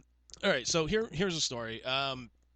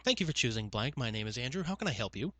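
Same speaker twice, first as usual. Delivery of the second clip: softer, singsong phone greeting; customer service voice; 2 semitones lower, 3 dB quieter than usual. Shown as a demonstration. Agent answering the line, put-on customer service politeness. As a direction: recite it with practised politeness, tune lifting at the end. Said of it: "put on the old customer service voice".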